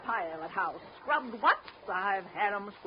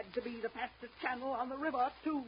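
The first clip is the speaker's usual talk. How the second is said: soft, tearful grief; crying; 7 dB quieter than usual. Acted. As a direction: choke it out through tears. Widow grieving husband's drowning.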